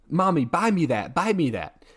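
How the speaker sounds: begging like a little kid, lightly acted; a child pestering its mother, half-hearted whine; mock child whine.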